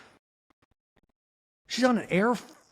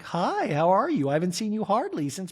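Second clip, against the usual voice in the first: Jennifer Tilly voice; 5 semitones higher than usual. Retold or imitated. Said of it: "I'm not gonna even try to do it".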